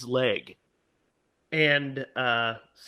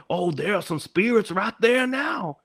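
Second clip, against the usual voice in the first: higher-pitched imitated character voice; voiced tour guide; 6 semitones higher than usual. Guide shows passengers the spirits, imitated showman voice. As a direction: point out spooks in a put-on voice.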